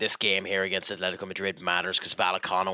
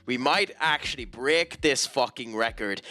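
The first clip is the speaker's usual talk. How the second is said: exasperated outburst; 7 semitones higher, 3 dB louder, slower than usual. Real, not acted. Exasperated rant about losing league.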